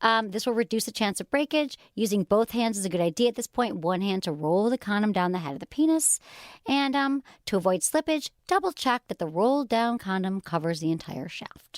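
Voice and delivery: measured reading of safety instructions; flight-attendant delivery. Real, not acted. Host reads condom steps to co-host, flight-attendant delivery. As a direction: read it like an airline safety briefing. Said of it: "You sound like a lady on an airplane".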